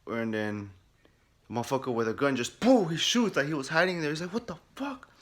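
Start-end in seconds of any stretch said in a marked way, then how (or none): 2.6-2.9 sudden loud, high "poof"; explosive shot sound effect; imitated gunshot. 4.3-5.1 high, softer squeak of shock; retold stunned reaction; mock startled disbelief. Acts startled reaction to shooter.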